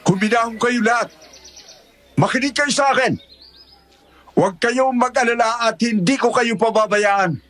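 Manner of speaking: rallying speaker calling for calm; addressing a crowd. Acted. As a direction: project firm reassurance to an angry crowd.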